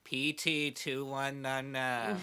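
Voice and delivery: unenthusiastic bored announcer; slow, flat office receptionist call; Roz. Retold or imitated. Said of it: "the most unenthusiastic, like "You're being called" voice".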